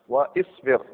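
واصبر as "wa-isbir", both vowels "i"; kasra on hamza. Shown as a demonstration. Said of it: "او مكسوره". (واصبر بكسر الهمزة والباء)

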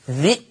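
ذي cut short by a glottal stop; short i, then hamza, in ذي; still hamza. Shown as a demonstration. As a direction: say ذي as "dhi'". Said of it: "ذا المكسورة في همزة ساكنة".

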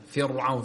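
فرعون with the ra made thick and broad; wrong heavy ra. Shown as a demonstration. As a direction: show the common mistake, a heavy ra in فرعون. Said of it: "كثير من الناس يخطئ".

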